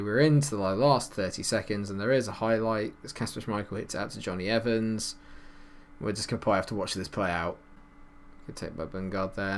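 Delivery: normal talking voice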